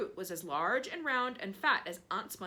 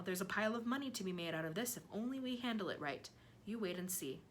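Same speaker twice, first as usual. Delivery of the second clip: sly; 5 dB quieter, faster than usual. Acted. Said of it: "sly, thin-lipped smile".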